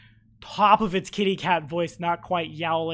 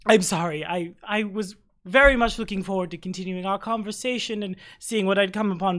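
normal talking voice

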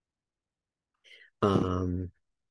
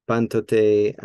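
"Pantote" with PAN punched; "Pantote", loud opening syllable, lighter ending; stress on first syllable; 6 dB louder than usual. Shown as a demonstration. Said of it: "I put the accent right here".

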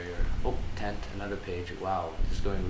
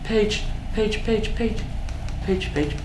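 high-pitched, louder repeated yelps; excited shouting; 12 semitones higher, 5 dB louder, slower than usual. Real, not acted. Gamer spotting a page at last, excited shouting. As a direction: yelp it out in a burst, high then easing down. Spots a needed page in game.

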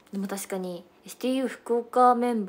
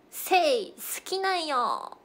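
higher, slowed, sweetly drawn out; cute Iyo dialect confession; 7 semitones higher, much slower than usual. Pretend. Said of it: "言ってください".

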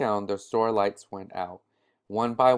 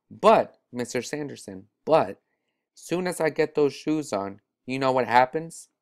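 put-on excited boy; 3 semitones higher than usual. Boy excitedly pitching deal.

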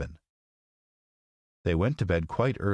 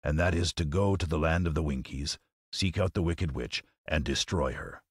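lion voice. Acted. Lion continues.

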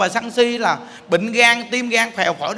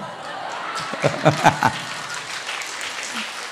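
breathy rising chuckle; real quiet laugh; soft laugh; 6 semitones lower, 6 dB quieter than usual. Real, not acted. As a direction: giggle under your breath. Laughs at own boast.

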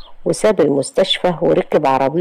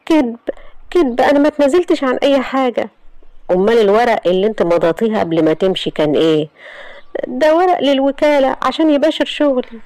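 put-on higher, distressed young woman; Iman's voice; 8 semitones higher than usual. Iman insisting to her aunt she never left home. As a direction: protest your innocence, voice pitched up.

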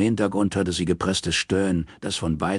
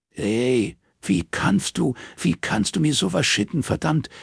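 furious outburst; 11 semitones higher than usual. Acted. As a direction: hurl it at him, outraged. Robin confronts Morris on phone.

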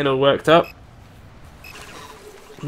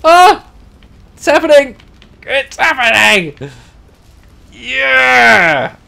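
high, loud cheers; excited shouting; 9 semitones higher, 7 dB louder, much slower than usual. Real, not acted. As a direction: whoop with delight. Celebrating reaching the city.

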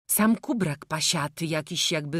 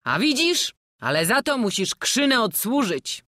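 louder, genial travelling-player voice; a jovial old jester coaxing the boy; hearty old showman; 6 semitones higher, 6 dB louder than usual. Acted. (dziarski stary kuglarz, głośniej)

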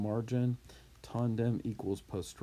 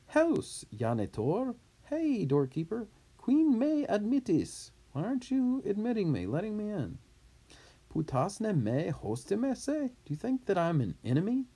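loud call to the doorkeeper, pitched high; 12 semitones higher, 3 dB louder than usual. Acted. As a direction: shout up at the closed gate to be let in. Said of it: "shouting, clamans, in a loud voice".

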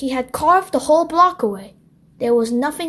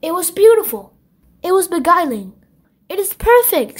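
admiring; 5 semitones higher, 4 dB louder than usual. Acted. Circle admires the sculpture.

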